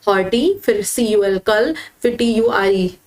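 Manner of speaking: हॉर्टी set apart, then कल spelt out as its own piece; broken into parts. Shown as a demonstration. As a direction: pause between हॉर्टी, सी यू एल कल and टी यू आई. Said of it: "कल्चर को भी break करोगे".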